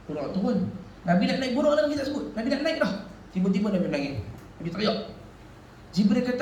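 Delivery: ordinary talk, nothing marked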